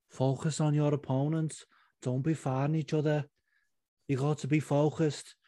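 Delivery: lightly voiced Scouse peacemaker, level and restrained; Molly McCann. Teammate calming fighters before their bouts, lightly imitated. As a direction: gently urge them in a rough impression. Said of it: "I can't do a good Molly McCann".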